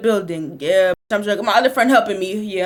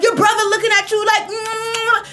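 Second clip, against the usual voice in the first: mom ranting; 5 semitones higher, 3 dB louder than usual. Retold or imitated. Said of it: "My mama over here like".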